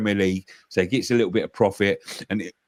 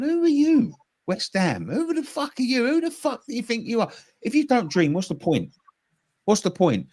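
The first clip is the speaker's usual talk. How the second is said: much higher mock shouting impression, what's the point; imitating Angry Ginge; 9 semitones higher than usual. Pundit imitates Angry Ginge mocking West Ham, higher. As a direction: yell it like Angry Ginge on video. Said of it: "Angry Ginge going".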